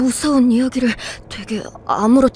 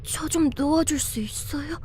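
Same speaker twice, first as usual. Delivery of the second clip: soft, breathy, softer request; timid whisper; 6 dB quieter than usual. Acted. Held by the robot, asking to be released in a whisper. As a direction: barely dare to ask.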